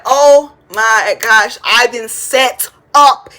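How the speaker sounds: slow, loud, drawn-out shock; dramatic realization. Retold or imitated. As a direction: stretch it out like you just figured it out. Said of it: "I said".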